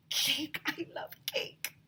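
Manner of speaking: put-on a light high girl's voice, breathless over cake; lightly voiced eager girl; excited Emily. A narrator's reading. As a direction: gush about cake like a little girl. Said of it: "said Emily".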